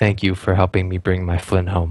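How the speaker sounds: quiet, hushed murmur, almost under the breath. A game master voices a courteous character speaking quietly, almost under his breath. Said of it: "he just says quietly, almost under his breath".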